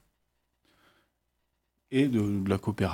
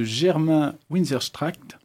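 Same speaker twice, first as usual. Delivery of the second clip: lightly attempted German accent on the name; 4 semitones higher, much slower than usual. Shown as a demonstration. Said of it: "j'ai un super accent allemand".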